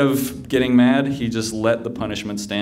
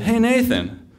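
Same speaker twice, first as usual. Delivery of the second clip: higher-pitched, eager hail; calling a friend; 12 semitones higher than usual. Retold or imitated. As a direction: get a friend's attention, pitched up. Calls to friend in retold scene.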